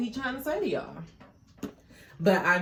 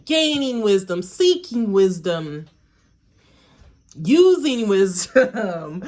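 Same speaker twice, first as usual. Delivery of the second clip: louder and slower with each phrase; building emphasis; 9 dB louder, slower than usual. Real, not acted. Reader building up the wisdom theme, louder and slower. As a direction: lean harder into each word.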